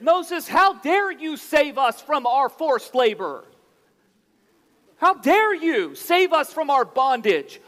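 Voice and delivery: mock-incredulous, mocking the leader; sarcastic complaint. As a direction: throw it back at Moses with scorn. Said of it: "you can hear the sarcasm".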